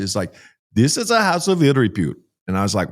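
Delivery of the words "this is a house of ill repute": higher, clipped imitation of an Indian driver's accent; harsh Indian accent. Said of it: "his accent was so harsh".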